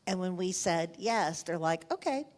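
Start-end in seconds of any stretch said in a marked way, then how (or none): 1.9-2.3 whispered aside. Retold or imitated. Chiefs of staff agreeing once Bush is in, whispered. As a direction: whisper it like a shared secret.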